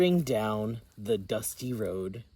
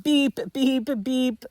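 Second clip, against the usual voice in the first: truck beep; 11 semitones higher, 4 dB louder than usual. Acted. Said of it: "said Blue".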